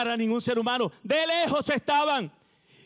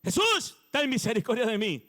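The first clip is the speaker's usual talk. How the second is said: crying out for mercy. Retold or imitated. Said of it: "usted está gritando y gritando".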